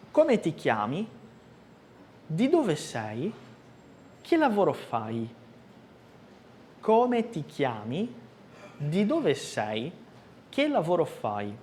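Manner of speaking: each question spaced and clear; slow model for repeating. Shown as a demonstration. Teacher reading questions aloud for repetition. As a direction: pause for students to repeat. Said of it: "ouça e repita sem ler".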